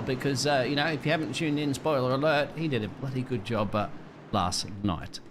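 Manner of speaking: put-on relaxed Aussie outback accent; laconic outback drawl. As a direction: drawl it like a laid-back Australian. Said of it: "the Australian Dean Bengals".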